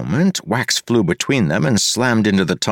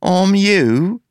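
much higher, loud sneering question; mock surprise in a stolen accent; mocking parody voice; 12 semitones higher, 3 dB louder than usual. A narrator's reading. The double taunts Wayne, high sneering mock voice.

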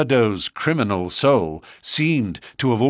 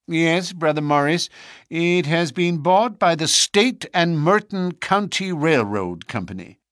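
chairman voice; 8 semitones higher than usual. A narrator's reading. Chairman answers.

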